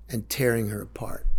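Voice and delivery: choked whisper. Real, not acted. Protecting daughter, emotional.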